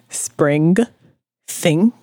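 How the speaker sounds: SPRING and THING with the final G sounded out; over-enunciate the G ending "Spring" and "thing"; imitated hard G. Co-host mimicking friend's accent on spring and thing, hard final G. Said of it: "it's like because of her accent".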